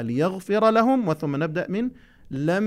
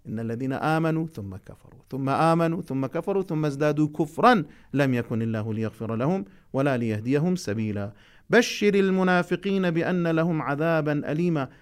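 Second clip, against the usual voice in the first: Quran recitation. Acted. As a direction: recite each word deliberately for the class. Recites full passage.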